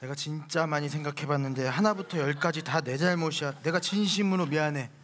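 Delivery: overdone apology. Acted. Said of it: "과한 사과".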